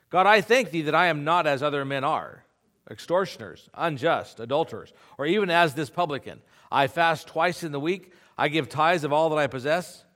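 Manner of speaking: a smug Pharisee praising himself; proud Pharisee. Acted. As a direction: pray as if to your own audience. Voicing the proud Pharisee's prayer.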